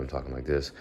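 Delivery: quiet, drowsy morning talk; slow early-morning mumble; sleepy and slow. Shown as a demonstration. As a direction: let it drift out half awake. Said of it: "just have this little thought".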